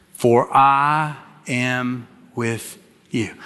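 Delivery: slow call with congregation; slow unison. Shown as a demonstration. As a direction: say it together, slowly. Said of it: "Can you say it with me".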